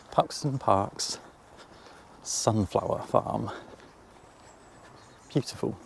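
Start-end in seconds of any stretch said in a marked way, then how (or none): 0.1-3.5 slow, drawn-out title read; announcing the name. Real, not acted. Presenting the farm to viewers, slow announcing. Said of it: "naming the place as a title".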